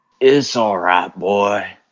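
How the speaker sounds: loud, booming, slow, steady character voice. Approaching a horse in character: Arthur Morgan impression. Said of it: "In his best Arthur Morgan impression".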